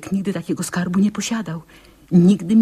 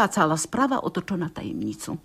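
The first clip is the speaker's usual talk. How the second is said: secretive whisper; 6 dB quieter than usual. Acted. Aunt confiding the hidden secret.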